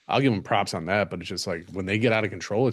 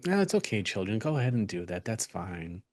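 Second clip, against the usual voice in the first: softer, overly calm and permissive; mock serene parent letting kids do anything; mock calm Zen mom; 6 dB quieter than usual. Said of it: "All just nice and calm, like Zen".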